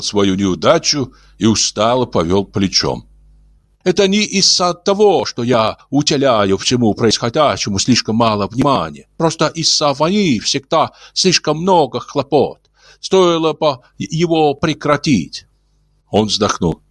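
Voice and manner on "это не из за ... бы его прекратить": gentle alien voice. Acted. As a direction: speak like a kindly old alien. Ulin voiced.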